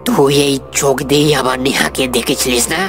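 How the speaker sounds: low, vengeful taunt; low and threatening; menacing taunt. Acted. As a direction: taunt your victim with menace. Avenger taunts his tormented victim.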